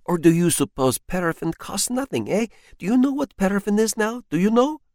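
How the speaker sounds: high, rising scolding; scolding wife. Acted. Wife scolds husband over the paraffin, high and rising. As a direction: scold him for wasting paraffin.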